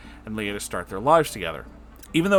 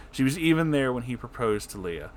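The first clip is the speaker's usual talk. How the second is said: usual speaking voice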